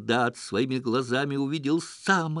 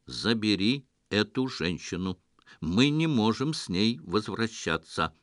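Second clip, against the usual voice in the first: lightly voiced even machine voice; металлический голос; 2 semitones lower than usual. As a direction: speak evenly like a robot. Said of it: "Ровный металлический голос". (ровный голос инопланетянина)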